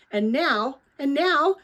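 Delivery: excitement building on the repeat; excited. A narrator's reading. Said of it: "All Lena's excitement flooded back".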